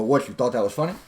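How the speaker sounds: light challenging comeback; breaking rapport. Shown as a demonstration. Coach showing how to break after a joke, mild challenge. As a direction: check them with a small verbal pinch. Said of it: "you break a little bit".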